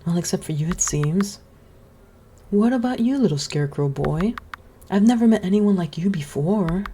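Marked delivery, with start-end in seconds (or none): 2.5-6.8 lightly voiced gentle witch. Witch greeting the scarecrow boy, lightly voiced kindly.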